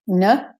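"N" as a short weak nuh; de-stressed syllable. Shown as a demonstration. Teacher breaking the word up, weak "N". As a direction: clip "N" to an unstressed schwa. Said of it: "de-stressed".

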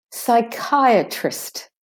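slow "Psychiatrist", high KAI and weak trist; de-stressed second I. Shown as a demonstration. Teacher modelling for learners, "Psychiatrist" with weak second I. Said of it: "second I is de-stressed".

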